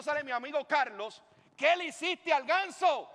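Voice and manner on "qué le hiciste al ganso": loud, high accusing question; raised-voice reproach, pitched well up; shocked confrontation. Retold or imitated. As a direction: cry out in dismay at what was done. Friend confronts him over the goose.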